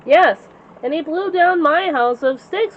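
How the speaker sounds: slow, mild mock wail; a touch of a wail. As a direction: drag it out like a sorry little pig. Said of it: "wailed Porker".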